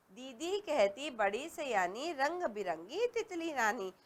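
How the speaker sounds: put-on slow sing-song reading of a kids' poem; poem recital. Shown as a demonstration. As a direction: recite it gently for young pupils. Reads a children's poem.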